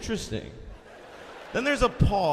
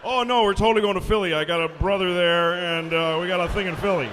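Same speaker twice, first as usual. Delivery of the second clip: mock innocent lie; 3 semitones lower, 5 dB louder, faster than usual. Lying to the pilot, acted quote.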